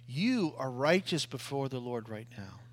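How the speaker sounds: hushed whisper, each word breathed out. Real, not acted. Pastor whispering reassurance to his congregation, hushed. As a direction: lean in and whisper it like a secret.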